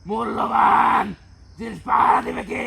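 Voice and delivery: loud, forceful challenge; indignant shout. Acted. Spirit challenging exorcist about guarding valuables, indignant shout. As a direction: throw the question out loudly.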